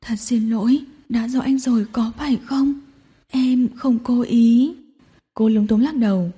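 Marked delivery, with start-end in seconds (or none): 0.0-4.7 half-whispered, lip-trembling sorry; whimpering apology. Acted. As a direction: apologise like a child about to cry. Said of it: "mếu máo". (giọng mếu máo xin lỗi)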